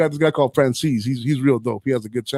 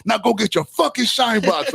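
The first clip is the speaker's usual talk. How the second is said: slow, higher mock taunt; lightly acted mobster sneer, slowed and pitched up; retold gangster taunt; 7 semitones higher than usual. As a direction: drag out the insult to provoke him. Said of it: "And he goes".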